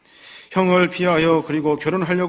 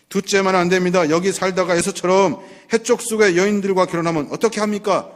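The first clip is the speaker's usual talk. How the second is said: higher and a bit louder, 둘째만은 pressed hard; insistent complaint; 3 semitones higher, 3 dB louder than usual. Acted. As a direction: she won't give way: 둘째만은 안 됩니다. Rebekah insisting to husband. (남편에게 둘째만은 안 된다고 다그치는 목소리)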